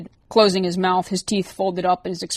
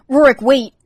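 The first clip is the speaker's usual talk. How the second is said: louder, higher urgent call; 6 semitones higher, 10 dB louder than usual. A narrator's reading. Liz calling out to Rorik before he hangs up.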